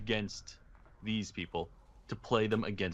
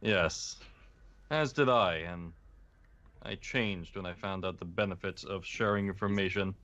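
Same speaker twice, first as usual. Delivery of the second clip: slow theatrical villain menace; 4 semitones lower than usual. Acted. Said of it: "He's talking like a villain now".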